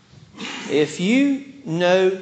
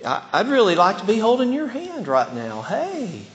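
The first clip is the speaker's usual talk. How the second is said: flirty, lovestruck; 5 semitones higher than usual. Shown as a demonstration. Wanting to hold a sweetheart's hand, flirty. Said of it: "thoughts of love, occasionally you'll say".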